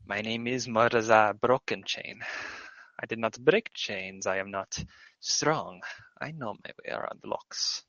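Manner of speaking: a small creature murmuring its thanks; kobold voice. Acted. Morzar introduces himself.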